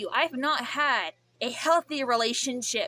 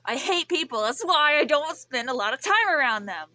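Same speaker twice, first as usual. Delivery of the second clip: angry rant; 5 dB louder than usual. Real, not acted. Venting anger.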